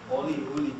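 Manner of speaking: Oli with O, then uli with U; intermediate vowel demo. Shown as a demonstration. Teacher showing two Nahuatl variants, O in Oli, U in uli. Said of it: "sometimes uttered as oli".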